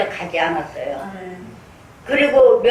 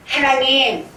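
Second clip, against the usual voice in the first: fervent prayer; 5 semitones higher than usual. Retold or imitated. Reenacting her fervent prayer for fire.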